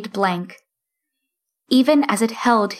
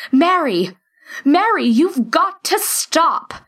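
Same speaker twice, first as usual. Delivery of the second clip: calling out; 7 semitones higher than usual. A narrator's reading. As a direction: call out to stop her. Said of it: "Teddy B called out".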